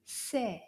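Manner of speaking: c'est said as a short "say"; pronunciation model. Shown as a demonstration. Teacher models c'est for pupils to repeat. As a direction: give c'est clearly as /se/ with a falling end. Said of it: "this word sounds like this".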